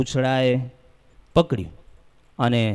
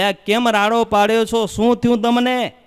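alarmed questioning; 7 semitones higher than usual. Acted. Onlookers question the screaming women.

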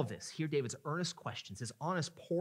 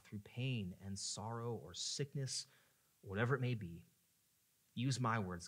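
lowered, measured pastoral prayer; earnest prayer; 3 semitones lower than usual. Real, not acted. Pastor asking God for help this morning, earnest prayer.

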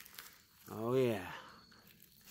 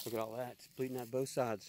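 hushed tracking; 12 dB quieter, faster than usual. Real, not acted. Quietly tracking blood trail.

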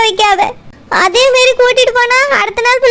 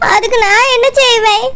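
crying. Acted. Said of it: "அழாதம்மா".

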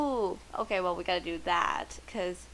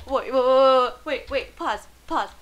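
urgent; 2 semitones higher, 7 dB louder than usual. Real, not acted. Urgent stop of game action.

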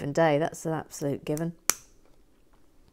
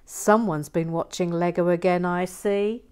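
sarcastic; 3 dB louder, slower than usual. Retold or imitated.

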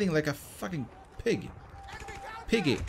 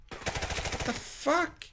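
whispered; 9 semitones higher, 8 dB quieter, much slower than usual. Real, not acted. Startled in firefight.

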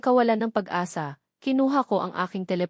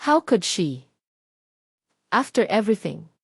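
louder, indignant disbelief; outraged; 4 dB louder than usual. Acted. Marco furious at what Ana's aunt said, indignant. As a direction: let the outrage spill out.

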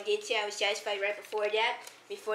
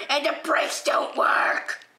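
whispering; slower than usual. Acted. Aside whisper.

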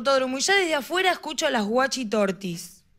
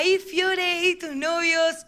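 aunt's voice; 5 semitones higher, much slower than usual. Retold or imitated. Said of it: "Que me diga".

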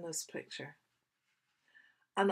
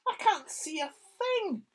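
higher, louder panicked cry; scared child; 10 semitones higher, 6 dB louder than usual. Acted. Sam lost in whiteout, panicky. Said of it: "he thought".

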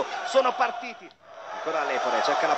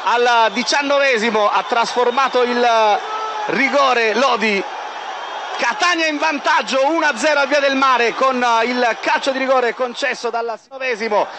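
breathless italian goal commentary; 3 semitones higher than usual. Real, not acted. Penalty scored, goal call.

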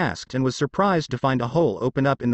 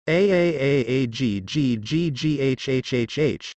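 pained scream. A narrator's reading. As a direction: yell out from a cut palm. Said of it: "Naruto screamed".

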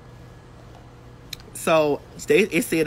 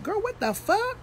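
high, squeaky mock alarm; imitating her own disbelief, pitched high; retold shock; 4 dB quieter than usual. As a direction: jump way up in pitch like you just caught the bug. Retold shock at getting sick.

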